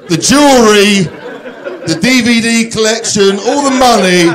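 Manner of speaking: high-pitched mock-incredulous rant; losing it. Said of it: "I lost it big time".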